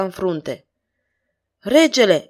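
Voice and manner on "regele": a sudden, raised cry of recognition; startled exclamation. Acted. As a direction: soldier exclaims on spotting the king, surprised. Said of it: "exclamă șeful".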